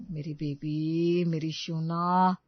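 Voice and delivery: slow, low, coaxing sweet talk; coaxing husband. Acted. Husband coaxes his sulking wife, slow and sweet. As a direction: soothe her like a sulking child.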